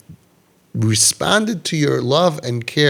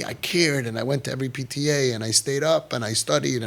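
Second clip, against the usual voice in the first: softer, hurt listing; softer aggrieved recital; aggrieved father; 6 dB quieter than usual. Retold or imitated. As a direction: list the efforts quietly, wounded.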